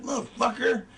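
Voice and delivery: mock seething curse; mad. Shown as a demonstration. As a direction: show being mad, hammed-up. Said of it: "If you're mad, you're like".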